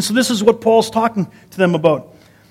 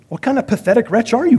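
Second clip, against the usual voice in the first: higher-pitched, scornful question; mock disbelief; 6 semitones higher than usual. Onlooker hearing Paul's list of sufferings, mock disbelief. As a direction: exclaim in mock incredulity.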